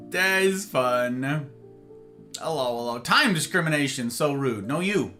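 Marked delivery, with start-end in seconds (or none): 0.1-1.2 slow, stretched-out words; drawn out. Pretend. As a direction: stretch every word out slowly.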